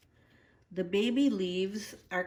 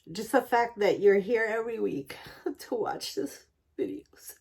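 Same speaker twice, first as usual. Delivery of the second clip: whispering. Real, not acted. Emotional thanks to viewers.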